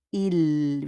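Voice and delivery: IL said as "eel" with a held L; pronunciation model. Shown as a demonstration. Teacher shows how the plural pronoun sounds, modelled IL. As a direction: sound out IL slowly, silent S. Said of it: "we pronounce it as il".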